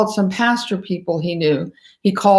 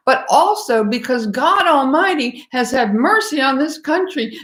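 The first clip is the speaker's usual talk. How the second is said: higher, fervent, rising with feeling; real emotion swelling in the voice; getting emotional; 6 semitones higher than usual. Real, not acted. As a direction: lift it high as the emotion wells up. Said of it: "pardon me for getting a little emotional".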